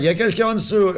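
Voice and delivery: high loud cry of warning; warning shout. Acted. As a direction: yell it down to the kids. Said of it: "dit Fred".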